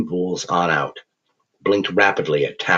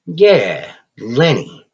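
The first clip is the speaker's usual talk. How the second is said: higher, louder smug jab; taunting; 5 semitones higher, 4 dB louder, much slower than usual. Acted. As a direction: rub it in. Tapper taunts with name.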